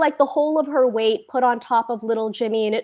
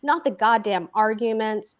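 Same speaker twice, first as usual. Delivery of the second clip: usual speaking voice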